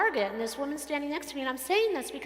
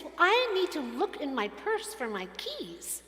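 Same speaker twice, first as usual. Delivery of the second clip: indignant shopper, pitched higher; mock indignant; 4 semitones higher than usual. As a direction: imitate an affronted customer defending herself. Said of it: "she looks all indignant and says".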